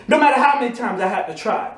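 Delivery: building, fast driven chant of resolve; determined vow. Acted. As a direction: swear it like a vow, pushing forward. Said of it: "Your attitude must be".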